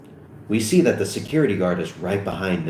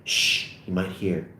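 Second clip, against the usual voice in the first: softer, slow hushing; nervous; 3 semitones lower, 6 dB quieter, slower than usual. Acted. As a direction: anxiously shush a friend. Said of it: "Evan nervously says".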